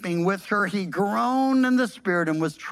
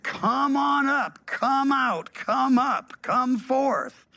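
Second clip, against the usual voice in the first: higher, stretched-out summons; calling command; 5 semitones higher, slower than usual. Retold or imitated. Preacher voicing the command to all the dead, calling out. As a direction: imitate calling someone up out of a grave. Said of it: "The command".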